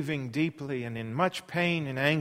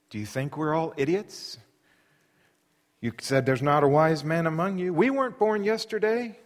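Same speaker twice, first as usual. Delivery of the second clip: much louder, sharp rebuke; scolding; 7 dB louder than usual. Acted. Bildad lecturing Job about the wicked, loud scolding. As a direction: snap at him to get a grip. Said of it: "And Bildad says".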